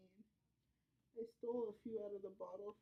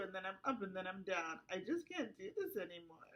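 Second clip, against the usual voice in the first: rising distressed rant; 6 dB louder than usual. Acted. Client spirals into distressed rant.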